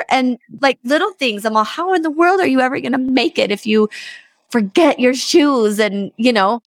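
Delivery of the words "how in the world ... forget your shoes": high-pitched exasperated scolding; a frantic mom nagging about the forgotten shoes; panicked mom. Retold or imitated. Mom scolding her son for forgetting shoes, high and exasperated. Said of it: "there's a sense of panic".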